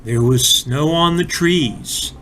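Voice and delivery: put-on gentle read-aloud storyteller for kids; expressive picture-book reading; storybook narration. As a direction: tell it like a bedtime story to small children. Reads a children's story aloud.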